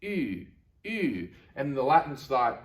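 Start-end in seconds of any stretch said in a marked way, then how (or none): 0.0-1.3 drawn-out fronted oo, lips rounded; Greek U. Shown as a demonstration. Teacher showing a sound borrowed from Greek, long fronted U. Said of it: "this sound in Greek".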